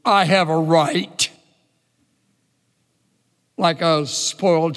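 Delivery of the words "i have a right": impudent. Acted. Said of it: "he answers impudently".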